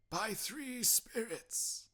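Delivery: high, very slow foreboding; spectre's grave slow warning; ominous slow ghost. Acted. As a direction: let the warning hang. Ghost voice in story.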